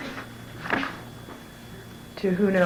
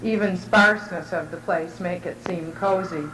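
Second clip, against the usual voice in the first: measured, evenly paced reading aloud; literary reading. Real, not acted. Writer reading their descriptive portrait to an audience, measured literary reading. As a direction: read it in deliberate phrases, pausing between images. Reads her written piece aloud.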